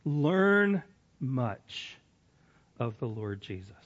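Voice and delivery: slow, deliberate reading of "Learn much"; reading aloud slowly. Shown as a demonstration. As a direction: read each word slowly on purpose. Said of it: "I'm gonna read it slowly on purpose".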